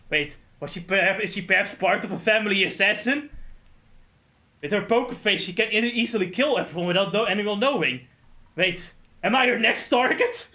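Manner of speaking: imitated alarmed suspicion; mock paranoid panic. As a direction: spin a wild theory, rising to an alarmed question. Acting out character's paranoid theory.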